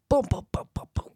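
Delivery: imitating pizzas firing out, boom boom boom; quick, punchy mouth sound effect; rapid boom noises. Mimics pizzas being fired out.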